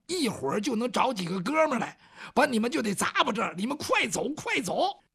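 urgent villager. Acted. Villager warns them urgently.

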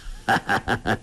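short chuckle before speaking; old man's hearty laugh. Acted. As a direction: laugh fondly at the girl. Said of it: "洪七公笑道".

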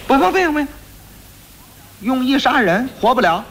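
high sharp constable refusing flatly; stern refusal. Acted. Constables refusing the boy's plea, sharp high official voice. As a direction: cut him off, official and curt.

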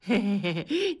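a light mock heh-heh chuckle; a hint of a knowing snicker; sly chuckle. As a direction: chuckle like you caught them at it. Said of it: "大庄嘿嘿地笑说".

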